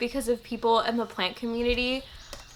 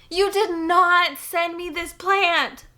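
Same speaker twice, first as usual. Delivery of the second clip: slow, high, loud exclaiming; savoring each word in shock; disbelief; 6 semitones higher, 4 dB louder, slower than usual. Real, not acted. Disbelief at gift.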